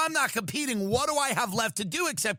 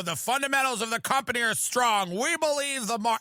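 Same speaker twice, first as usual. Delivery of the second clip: higher, smooth corporate reassurance; confident CEO; 4 semitones higher than usual. Retold or imitated. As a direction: reassure shareholders brightly. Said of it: "they'd go".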